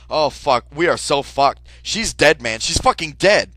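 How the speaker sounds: loud, frantic panic; panicked shouting. Retold or imitated. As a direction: yell it in rising dread. Panicking at dead body.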